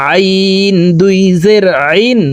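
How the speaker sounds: long "আইন" squeezed from mid-throat; pressed throat Ayn. Shown as a demonstration. Teacher demonstrates Ayn after the rule, pressed from mid-throat. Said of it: "হলকের মধ্যখান থেকে চাপ দিয়ে".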